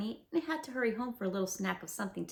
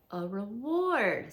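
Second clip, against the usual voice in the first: slow, loud, spelled-out word; loud owl, mildly raised; 4 dB louder, much slower than usual. Acted. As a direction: say it loudly so the bear hears. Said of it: "said Owl very loudly".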